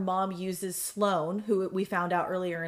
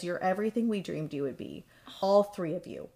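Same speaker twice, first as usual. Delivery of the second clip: softer, reverent reading of a dying mother's words; tender farewell read; 3 semitones lower, 4 dB quieter than usual. Retold or imitated. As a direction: read it gently, with awe. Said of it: "Lilith says".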